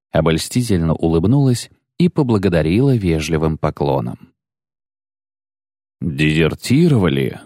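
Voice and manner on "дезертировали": incredulous. A narrator's reading. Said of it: "недоверчиво повторил Бонард".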